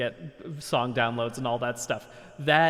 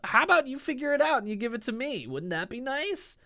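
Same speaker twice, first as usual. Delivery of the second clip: scammer impersonating him; 7 semitones higher than usual. Pretend. Mocking a scammer who poses as him to fans. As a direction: wheedle like a sleazy scammer begging. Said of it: "I will never be like".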